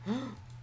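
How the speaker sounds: sudden high gasp of alarm; sharp gasp. Real, not acted. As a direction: gasp in shock. Sudden danger to pet.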